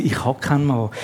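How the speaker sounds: resigned. Acted. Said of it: "Und darum sagt sie".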